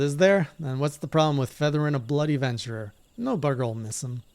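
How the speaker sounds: lightly voiced thuggish outlaw; rough villain. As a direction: taunt the captives.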